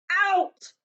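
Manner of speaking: loud, high roar. Acted. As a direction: bellow the order out. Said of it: "roared Uncle Vernon".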